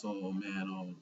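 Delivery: sly teasing villain, rising at the end; smug liar shifting the blame. Retold or imitated. Doflamingo slyly lies to Kairos, teasing and rising.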